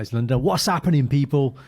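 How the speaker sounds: London catchphrase with dropped letters; London accent imitation. Explaining how the co-host says his intro, London accent. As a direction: lift it slightly, London-style, consonants dropped. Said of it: "you drop letters and you become like".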